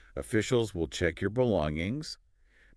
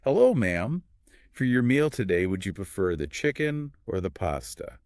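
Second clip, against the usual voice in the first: cheerful flight attendant. Shown as a demonstration. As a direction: greet the passenger with a big smile. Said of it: "Flight attendant voice, cheerful".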